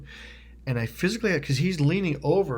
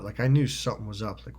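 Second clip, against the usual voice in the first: ordinary delivery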